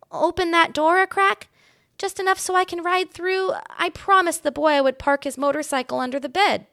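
very high little mouse voice; small mouse squeak, eager; squeaky mouse. A narrator's reading. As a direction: pipe up like a tiny mouse. Ralph the mouse speaks.

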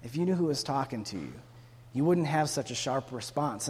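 soft, understated reply; gentle, not sharp. Acted. Jesus replying to the woman's sharp answer, gently. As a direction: answer softly without any bite. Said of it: "response back to her isn't sharp".

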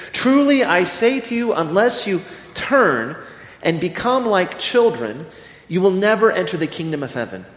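measured Bible reading voice; solemn scripture reading. Acted. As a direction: read the verses reverently, drawing out Jesus' words. Reads Matthew eighteen aloud.

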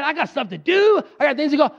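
mock groggy, whiny complaining voice; tired churchgoer. Sleepy churchgoer on Sunday morning, mock whiny grumble. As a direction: grumble like someone who'd rather sleep in. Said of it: "you go".

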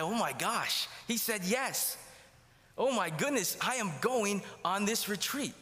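high, stunned, giddy disbelief; flabbergasted joy. Retold or imitated. Teen stunned that dad agreed, high giddy disbelief. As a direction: blurt it out like you can't believe your luck. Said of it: "I sat completely flabbergasted".

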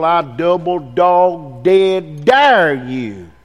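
slow drawn-out schoolkid dare; schoolyard dare. Retold or imitated. Preacher daring the men, slow schoolyard dare. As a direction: stretch each word like a playground taunt. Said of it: "We used to say in school".

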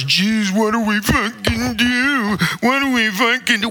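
high-pitched mock helpless complaint; mock helplessness. Mimics people at a loss.

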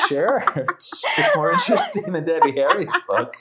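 monotone robot voice; flat robotic delivery. Pretend. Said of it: "You really sound like a robot".

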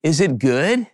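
gently imitated daughter's question, rising at the end; kindly child. Young daughter asking her dad about her toys, kindly. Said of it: "she said it so kindly".

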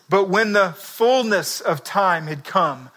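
slow, measured Bible reading; scripture reading. Acted. Preacher reading Acts to the congregation, slow and measured. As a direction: read it out slowly like a solemn verse.

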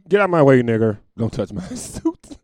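mock street bigot yelling and breaking into laughter; hammed-up racist yell. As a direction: ham up the bigot until you crack up. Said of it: "You used to say that on the street".

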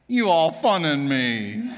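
lightly imitated southern drawl. Pastor Joey teases the shortstop in a slow southern drawl. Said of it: "in his cute little southern drawl".

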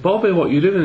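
high, rising "what are you doing?"; retold surprised question. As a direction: voice a puzzled passer-by, pitch jumping up. Town supporters voiced in an anecdote.

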